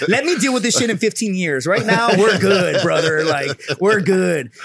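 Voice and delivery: indignant retort. Retold or imitated. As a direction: push back hard, drawing out the final assurances. Acts out wished-for retort to counselor.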